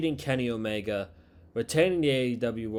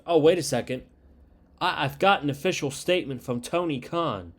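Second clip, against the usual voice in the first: announcer impression; 3 semitones higher than usual. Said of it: "They do it all the time with these announcers".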